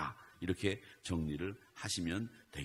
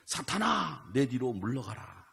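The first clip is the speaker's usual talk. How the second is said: a louder, higher stern rebuke, sharp on 사탄아; 4 semitones higher, 4 dB louder, slower than usual. Retold or imitated. Jesus rebuking Peter, a stern raised command. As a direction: command Satan to get behind. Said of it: "그렇게 이야기를 했습니다".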